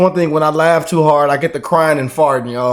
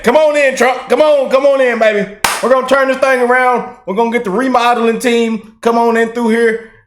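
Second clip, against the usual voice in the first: mock welcoming host; 5 semitones higher than usual. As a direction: usher him in like a home-makeover host.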